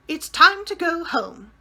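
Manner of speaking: nanny calling time over the roars; trumpeting. A narrator's reading. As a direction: ring out over the laughter like a trumpet. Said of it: "sounded ... like a trumpet".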